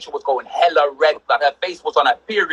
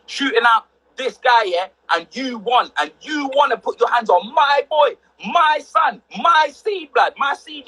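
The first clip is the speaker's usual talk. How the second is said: mum's furious shout; 6 semitones higher, slower than usual. Retold or imitated. Mum shouting at the teacher over her son. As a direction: roar it out, defending her son.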